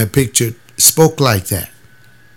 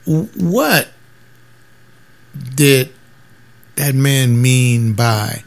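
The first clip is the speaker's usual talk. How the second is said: slow, puzzled question; a church member asking slowly, confused; puzzled questioner; 2 semitones higher, much slower than usual. Retold or imitated. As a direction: spell it out slowly, baffled. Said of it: "you ask one of them church members".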